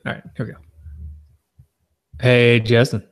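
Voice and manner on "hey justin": upbeat show-open greeting; podcast intro. Acted. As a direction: greet like a host. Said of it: "I'll do the Hey Justin here".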